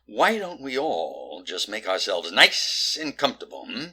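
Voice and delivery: controlled, coaxing restart; forced calm. Acted. Detective settling everyone down, forced calm. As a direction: rein in the temper and invite politely.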